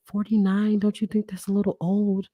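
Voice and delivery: mimicking a doubtful woman. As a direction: raise the voice in disbelief at the age. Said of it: "she was like".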